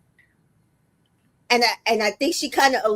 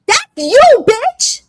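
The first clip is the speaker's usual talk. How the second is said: higher, louder mocking jab; incredulous retort; 12 semitones higher, 6 dB louder than usual. Real, not acted. Calling out Parmita in disbelief, high and loud. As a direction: fire it back in disbelief.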